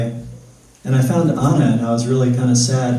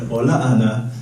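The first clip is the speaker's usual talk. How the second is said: deeper voice; 3 semitones lower, 6 dB quieter than usual. Retold or imitated. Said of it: "except my voice was deeper".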